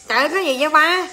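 fast, loud and high refusal. Real, not acted. Rejecting her boyfriend's offer, a loud exasperated refusal. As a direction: shout him down, exasperated.

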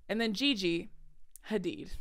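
mock name-dropper's gap before "Hadid"; name-drop pause. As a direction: pause between "Gigi" and "Hadid". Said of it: "so they say the first name".

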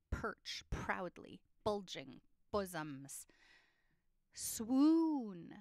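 Perch, proudly, bulging, bosoms with the p and b popped; p and b sounds stressed. Shown as a demonstration. Teacher listing sound words, popping each first sound. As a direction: pop the p and b in each word. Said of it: "some other word sounds".

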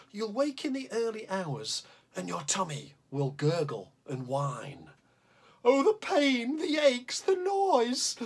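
lively, bouncy storytelling rhythm; reading a poem to children. Acted. Teacher reads the tummy troll poem to the class, playfully. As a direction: read a silly bedtime poem aloud to the kids.

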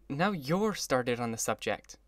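slow, faintly smiling and weary; a tired little smile in the voice; wan smile. Acted. Jordan answering the narrator with a slow, wan smile. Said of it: "with a wan smile".

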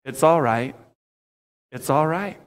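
calm, settling reassurance; reassuring. Shown as a demonstration. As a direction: say it gently so it lands as comfort. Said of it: "When Jesus says".

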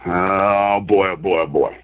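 very low, drawn-out groaning mutter; daunted sigh. Real, not acted. Guest urged to go for it, daunted low groan. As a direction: sink right down low, heaving into a big topic. Reluctant pause before a big topic.

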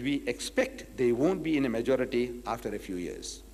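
dry, dismissive answer from the Zionist leader; answered dryly. Acted. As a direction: shrug it off dryly. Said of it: "answered dryly".

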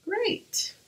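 high whispered great; deadpan whispered annoyance; under-breath sarcasm; sarcastic whisper. Real, not acted. Sarcastic whisper after mishap.

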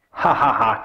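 acted mocking "ha ha ha"; mock laugh. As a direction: put on a laugh at someone. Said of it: "When you laugh at someone".

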